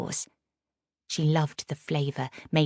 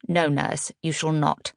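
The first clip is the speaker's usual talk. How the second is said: louder, firm command; 4 dB louder than usual. Acted. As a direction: lay down the law. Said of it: "Agatha said firmly".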